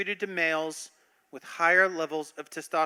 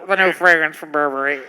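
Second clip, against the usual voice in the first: sultry perfume ad; 3 semitones lower, 5 dB louder than usual. Retold or imitated. Mocking the Burberry commercial voiceover.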